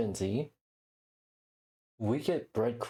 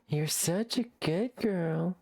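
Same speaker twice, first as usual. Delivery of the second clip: talking to a pet; 5 semitones higher, slower than usual. Real, not acted. Praising her pet.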